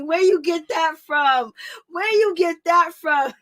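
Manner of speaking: loud, drawn-out teasing holler; mock hollering question. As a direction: holler it high and loud in mockery. Hollering mock question about hair.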